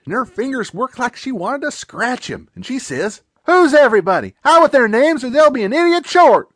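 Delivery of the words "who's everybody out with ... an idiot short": loud, higher threatening demand; snapping anger. Acted. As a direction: snap it out ready to scratch him. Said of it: "her eyes snapped".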